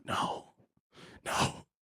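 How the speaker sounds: cowering refusal. Acted.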